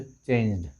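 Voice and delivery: चेंज्ड with -ed as a bare final d, no extra vowel; demonstrated pronunciation. Shown as a demonstration. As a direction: say चेंज्ड as one syllable ending in d. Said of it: "असं pronunciation आहे".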